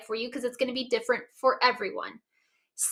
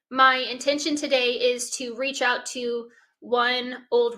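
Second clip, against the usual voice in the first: slow, deliberate intentions; slower than usual. Shown as a demonstration. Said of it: "So it could be like".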